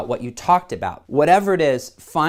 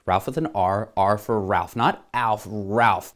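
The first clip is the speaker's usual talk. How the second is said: memorize mode; 6 semitones lower than usual. Retold or imitated. Memorizing a new acquaintance's name, lower inner voice. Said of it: "memorize mode".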